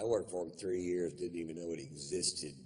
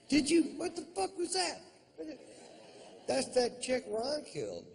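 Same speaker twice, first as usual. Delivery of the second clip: mock startled; 5 dB louder than usual. Startled listener in the desert.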